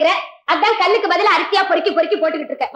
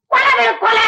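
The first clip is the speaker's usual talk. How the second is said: shouted demand; 2 semitones higher than usual. Acted.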